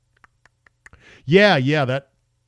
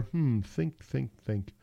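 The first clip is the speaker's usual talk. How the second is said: mock thinking; 9 dB quieter, much slower than usual. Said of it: "I'm tapping my chin".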